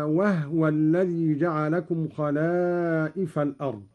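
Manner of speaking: "وهو" as wahwa, no vowel after ه; silent-vowel ha. Shown as a demonstration. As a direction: run the ه of "وهو" straight into wa. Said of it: "وكذلك قوله تعالى". (إسكان هاء «وهو»)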